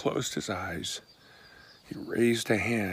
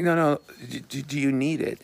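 higher, louder, pressing him kindly; insistent eager offer; 5 semitones higher, 8 dB louder than usual. Retold or imitated. Man in car insists to stranger, eager and raised. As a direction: push the offer eagerly over his confusion.

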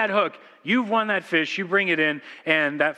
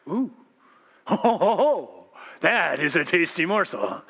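hammed-up gloating fish with a ho-ho-ho laugh; delighted fish. Preacher plays a fish eyeing the fly, hammed-up delight. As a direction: play a greedy fish, drawing the words out slowly. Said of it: "comes back and goes".

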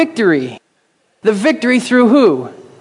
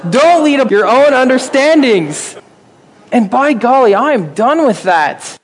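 getting excited; 4 semitones higher than usual. Real, not acted. Preacher to congregation, growing excited and fired up. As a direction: let the fervor spill over. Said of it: "I'm getting excited".

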